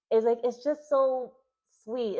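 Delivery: rising into a fond squeal; gushing. Real, not acted. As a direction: gush about how sweet it is. Gushing over a sweet scene.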